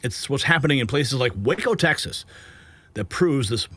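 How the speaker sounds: punchy cable-news delivery; news headline read. Acted. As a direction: sell each headline like breaking news. Reads the news headlines segment.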